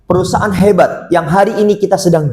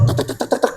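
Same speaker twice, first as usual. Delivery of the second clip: mock rapid chatter; 7 dB quieter, faster than usual. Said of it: "kalau ngomong pas di sesi ini agak cepet".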